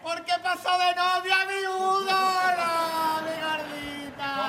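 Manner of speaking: loud, slow mock-tragic wail; hammed-up wail. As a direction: bawl it out like a comic mourner. Hammed-up grief, wailing.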